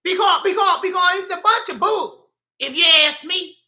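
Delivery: loud, high, indignant rant; upset. Real, not acted. Speaker scolding followers for needing help, upset and indignant. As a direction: let exasperation spill over comically. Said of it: "I'm getting upset now".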